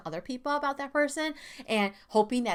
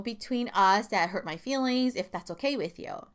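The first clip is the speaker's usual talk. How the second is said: neutral and calm. Shown as a demonstration. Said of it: "staying, like, neutral and more calm".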